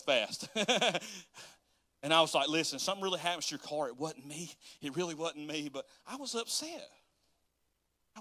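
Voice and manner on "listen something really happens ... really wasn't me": mock innocence. Joking denial to the manager.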